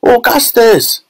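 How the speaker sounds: very high-pitched mother's cry; high, urgent woman's call; Missus Gloop. A narrator's reading. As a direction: cry out shrilly for your son. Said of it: "cried Missus Gloop".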